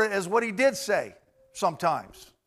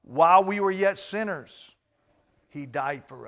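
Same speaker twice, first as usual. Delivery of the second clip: slow recitation. Shown as a demonstration. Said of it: "Say it with me".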